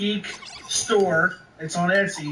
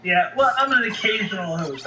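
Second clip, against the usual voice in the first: laughing; 3 semitones higher than usual. Real, not acted. Laughing while admitting he's occasional host.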